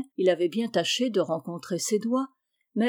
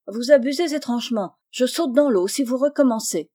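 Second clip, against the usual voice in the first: colère feinte; 4 semitones higher, 4 dB louder than usual. Acted. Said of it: "en affectant un air courroucé".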